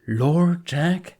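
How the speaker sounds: can't believe what he heard; incredulous. Acted. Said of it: "Jack says incredulously".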